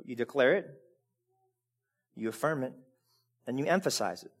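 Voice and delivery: each phrase set apart slowly, softly; a slow, soft, deliberate list; slow, spaced out. Shown as a demonstration. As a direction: lay down declare, affirm and emphasize one by one. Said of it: "how many times is it said?".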